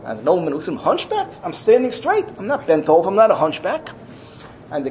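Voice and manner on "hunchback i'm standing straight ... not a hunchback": indignant disbelief. Acted. Nobleman denies being hunchback.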